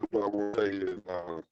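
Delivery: breaking up like a robot; garbled robotic bad connection. Real, not acted. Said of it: "you sound like a robot".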